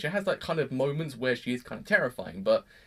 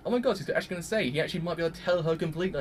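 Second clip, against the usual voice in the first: excited; faster than usual. Retold or imitated. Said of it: "So immediately I was like".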